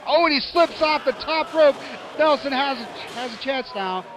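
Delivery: excited. Real, not acted. Wrestler slips off rope.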